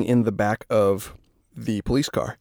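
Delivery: talking through a yawn; words stretched by a yawn. Real, not acted. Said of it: "I'm yawning again".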